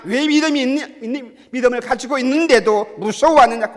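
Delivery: loud, high-pitched barrage of scolding questions; forceful rebuke. Acted. The Lord rebukes the congregation's lack of faith, in a forceful scolding. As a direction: hammer out each accusing question. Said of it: "이렇게 책망할 것입니다".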